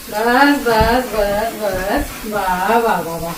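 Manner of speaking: soothing the dog. Real, not acted. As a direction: hush him gently down to a murmur. Calming the dog down.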